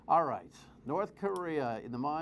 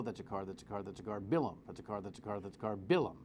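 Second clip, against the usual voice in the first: mock machine voice; 6 semitones lower, faster than usual. Host mocking the toll machine billing every car, droning. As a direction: drone the count like a robot. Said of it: "the machine's gonna go".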